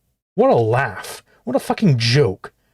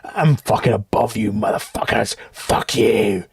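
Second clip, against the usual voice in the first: low mock arrogant sneer, lower pitch; mocking Dave; 5 semitones lower than usual. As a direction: sneer it like a smug big shot.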